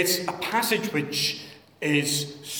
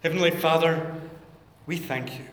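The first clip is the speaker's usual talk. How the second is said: prayer. Acted. Leads congregation in prayer.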